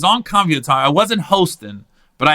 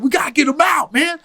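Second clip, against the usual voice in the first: urgent shout; 10 semitones higher than usual. Retold or imitated. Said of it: "They're like".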